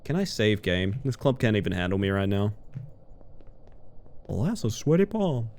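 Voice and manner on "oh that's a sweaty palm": lightly voiced Southern film lead, a bit muted; Southern accent. Streamer repeating the stuck movie line, lightly Southern. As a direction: toss it off with a hint of Southern.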